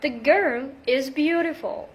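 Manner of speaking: beautiful with a quick D flap. Shown as a demonstration. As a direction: say beautiful as "beaudiful". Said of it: "between two vowel sounds".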